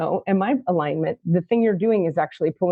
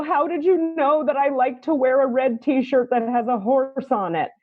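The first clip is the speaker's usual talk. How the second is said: amazed student; 6 semitones higher than usual. Retold or imitated. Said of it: "people go".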